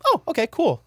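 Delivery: high, bright mock "oh, okay"; breezy acceptance. Podcast host showing how to just accept someone.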